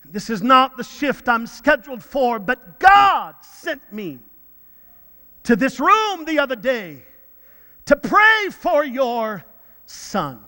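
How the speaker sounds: imitated Nigerian accent, slow and emphatic on key words; solemn declaration in a Nigerian accent. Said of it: "in her very strong Nigerian accent".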